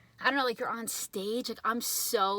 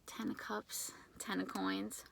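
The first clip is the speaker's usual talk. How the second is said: Ten of Cups, Ten of Coins whispered, much softer; whispered card names in disbelief; awed whisper; 3 semitones lower, 7 dB quieter than usual. Real, not acted. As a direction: repeat the cards under your breath in awe. Repeats the cards in awe.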